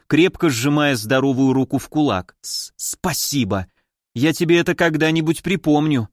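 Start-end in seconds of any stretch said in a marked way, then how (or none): 2.4-6.1 stuttered, pained thanks through teeth; through gritted teeth. Acted. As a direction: squeeze it out through clenched teeth. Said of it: "всё так же сквозь зубы".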